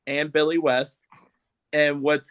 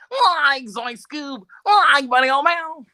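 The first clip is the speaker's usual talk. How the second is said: high, slow, put-on Shaggy voice with a loud finish; lazy stoner cartoon voice pitched way up; Shaggy impression; 12 semitones higher, 6 dB louder, slower than usual. Shown as a demonstration. Showing the podcast hosts his Shaggy voice, high and drawn out. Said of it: "like, this is Shaggy".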